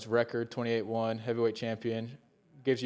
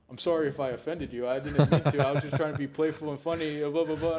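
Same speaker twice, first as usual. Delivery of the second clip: lightly mocked apology, lifting higher; imitated apologetic chatbot; 3 semitones higher, 4 dB louder than usual. Retelling Grok's apology for offending him, lightly imitated apologetic chatbot. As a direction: play the sorry bot, louder as laughter creeps in. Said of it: "And he's like".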